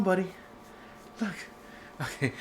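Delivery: high, sing-song pet talk; dog-talk voice. Real, not acted. Teacher cooing to her sleepy dog on camera.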